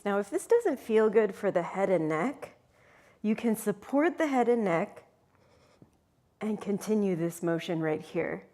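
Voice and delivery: shaky, strained while holding the crunch; shaking voice. Real, not acted. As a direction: voice trembling from ab effort. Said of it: "You can hear my voice shaking".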